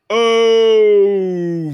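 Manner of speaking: mock anguished groan. Dad reacting to lost nuts.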